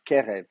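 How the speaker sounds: "Kerev" with the weight on KE, the second syllable light; stress on first syllable. Shown as a demonstration. Teacher shows students where "Kerev" takes its stress. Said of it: "l'accent est sur la première syllabe".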